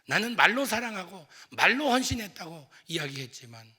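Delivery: loud, high, passionate preaching; a pastor's rising sermon climax; preaching at full force. Real, not acted. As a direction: drive the point home with fervour.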